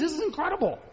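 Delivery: a mild show of thrilled delight; lightly played excitement; amazed. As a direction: gloat over the big catch. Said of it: "He's amazed".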